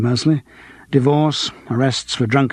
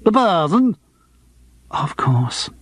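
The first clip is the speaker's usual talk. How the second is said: put-on dopey Lancashire accent, pitched higher; gormless Lancastrian accent; 4 semitones higher, slower than usual. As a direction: gormless Lancashire comic catchphrase. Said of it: "dropped into a gormless Lancastrian accent".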